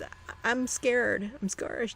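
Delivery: imitating scared wife. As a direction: retell her fear with a hint of panic, drawn out. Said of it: "And she says".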